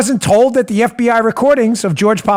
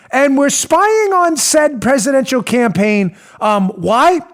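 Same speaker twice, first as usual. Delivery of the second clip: mock question; 4 semitones higher, slower than usual. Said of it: "the third question would be".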